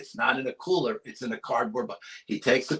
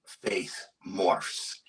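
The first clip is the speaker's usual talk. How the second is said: slow spooky whisper; 4 semitones lower, 5 dB quieter than usual. Acted. Spooky story climax.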